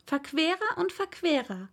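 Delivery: Alice exclaiming in amazement; surprised girl exclaiming. Acted. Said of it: "rief Alice".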